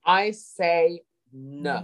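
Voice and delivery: very slow, accented "I say no"; code-switched accent. Shown as a demonstration. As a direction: repeat it slowly in the accent. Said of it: "did we just code switch there".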